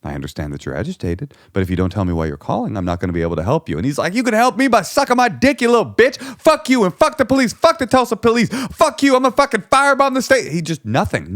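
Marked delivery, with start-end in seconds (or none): 0.0-3.8 low, soft, unflappable cop; calm and cool. Retold or imitated. Police officer calmly answering an abusive caller. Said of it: "He's just calm and cool". 4.1-10.5 raging caller. Retold or imitated. Interpreter voicing the caller's threats at the police.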